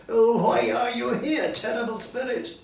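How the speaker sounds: high, loud pleading wail; frightened Scrooge. Acted. Scrooge begging the ghost, high and loud in fear. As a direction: plead with the terrible spirit. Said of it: "he cried with his hands on his face".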